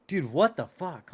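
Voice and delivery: high, drawn-out mock disbelief; astonished. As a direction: replay being totally blown away, stretching the words. Retells his amazed reaction.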